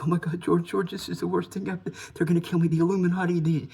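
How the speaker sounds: high, loud, hammed-up panic; mock panic. Caller telling the radio host he'll be killed, in hammed-up panic.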